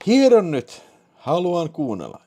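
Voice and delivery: loud, high burst of arousal; urgent excited. Acted. Acted urgent line in the call. (kiihtyneesti, korkealla ja kovaa)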